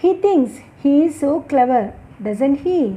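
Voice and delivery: falling intonation on "doesn't he"; falling tag intonation. Shown as a demonstration. Teacher models a confirmation tag for learners, falling intonation. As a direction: let "doesn't he" drop at the end, seeking agreement. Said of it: "we use a falling intonation".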